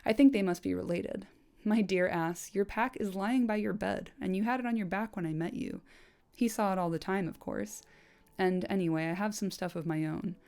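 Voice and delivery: measured, storyteller reading voice; audiobook-style reading of a fantasy novel; story narration. A narrator's reading. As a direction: read the book passage aloud to listeners. Reads book passage aloud.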